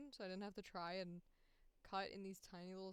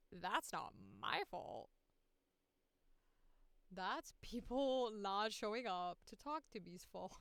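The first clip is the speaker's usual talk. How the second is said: mock blame; 5 dB louder than usual. Mock blaming, then just kidding.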